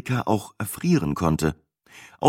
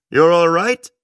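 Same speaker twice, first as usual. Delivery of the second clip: higher, rising English question; concerned driver; 8 semitones higher, 4 dB louder than usual. A narrator's reading. Driver to his freezing passenger, mildly concerned. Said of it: "fragte er mich mit besorgtem Blick".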